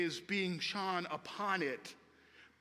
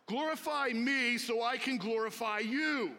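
insistent, slightly raised mock-grand plea; mock egomaniac; 3 semitones higher than usual. Son on the phone to his dad, mock egomaniac. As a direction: play at demanding glory. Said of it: "sounding like I'm an egomaniac".

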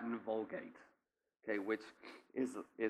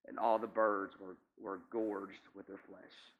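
scripture reading. Acted. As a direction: read the verse out, then let it settle. Preacher reads scripture aloud.

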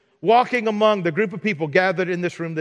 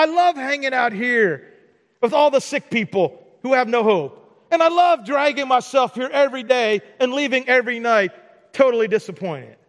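sarcastic invalid; 4 semitones higher than usual. Retold or imitated.

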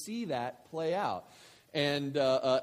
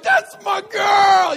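much higher, louder, slow triumphant shout; proud shout; 19 dB louder, much slower than usual. Retold or imitated. Father cheering his daughter's words, triumphant loud shout. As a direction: yell it like a proud dad cheering. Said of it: "And I was like".

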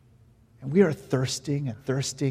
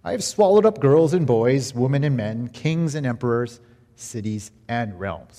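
booming lion voice; 6 dB louder than usual. Acted. Lion's grand declaration.

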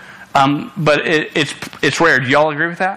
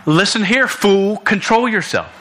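higher-pitched, frank telling-off; blunt admonishment; 6 semitones higher than usual. Real, not acted. Preacher frankly admonishing the congregation, blunt and higher. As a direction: put it to them bluntly, pitched up. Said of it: "let me put it frankly".

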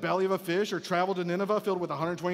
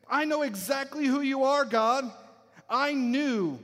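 higher, emphatic accusation; accusing Jonah; 5 semitones higher than usual. Acted. Jonah telling God he knew it all along, accusing. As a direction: confront God as if you saw it coming. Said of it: "Jonah says".

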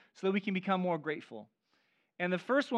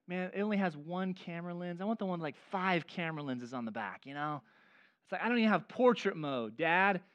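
put-on 1 whiny kid; 2 semitones lower, 5 dB quieter than usual. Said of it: "complaining about their phones".

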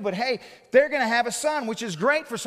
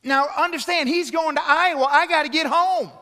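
higher, louder, pressing the point; urgent emphasis; 6 semitones higher, 6 dB louder than usual. Real, not acted. Preacher stressing he's stranded far from home, urgent. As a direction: make them feel the urgency.

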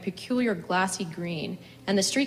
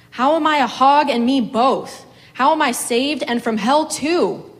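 louder, higher, outraged questioning; furious outcry; 6 semitones higher, 8 dB louder than usual. A narrator's reading. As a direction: hurl the questions at the sky. Woman rages at God over hogs.

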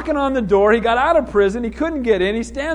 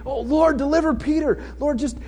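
mock pleading prayer; 5 semitones higher than usual. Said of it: "They're having this prayer meeting".

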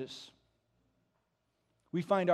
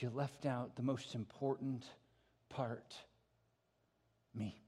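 usual speaking voice

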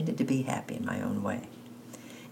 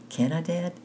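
put-on eager boy pleading; 7 semitones higher than usual. Boy begging his father.

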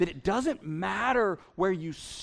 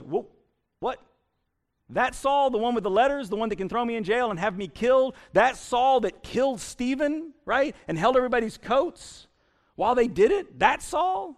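incredulous; 4 semitones higher, 4 dB louder than usual. Acted. Ananias balks at God's request.

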